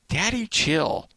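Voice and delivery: high, slow, drawn-out quip; meme imitation. Helper to his yelling boss, mimicking the meme. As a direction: mimic the meme to wind someone up. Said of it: "looks at me and goes".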